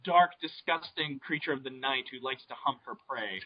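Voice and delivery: drawn-out mock disgust; mock-ominous description. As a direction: intone it slowly like a monster-film narrator.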